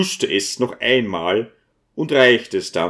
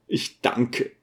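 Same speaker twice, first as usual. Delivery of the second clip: choked whisper; 6 dB quieter than usual. A narrator's reading. Old priest chokes up with emotion.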